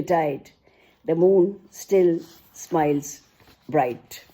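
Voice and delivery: expressive storytelling poetry reading; poem recital. Acted. Mother recites a poem about her daughter, recital voice. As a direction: tell the bedtime tale in verse.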